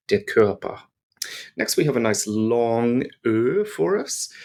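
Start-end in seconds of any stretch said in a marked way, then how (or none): 0.1-0.8 "Körper" with the "r" swallowed into the vowel; soft German R. Shown as a demonstration. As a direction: let the "r" of "Körper" vanish into the vowel. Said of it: "enveloped into the end of the vowel sound".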